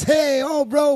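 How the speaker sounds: loud, high shout of greeting to the crew; hyped greeting. Retold or imitated. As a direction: call out to your boys, pumped.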